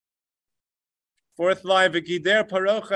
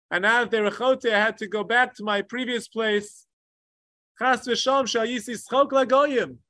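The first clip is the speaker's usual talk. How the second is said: lament of God; 3 semitones higher than usual. Retold or imitated. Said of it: "Hashem cries, Omer, and screams out".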